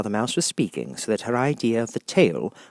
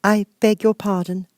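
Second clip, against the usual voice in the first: humbly; 13 semitones higher, 8 dB louder than usual. Acted. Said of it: "said Alice very humbly".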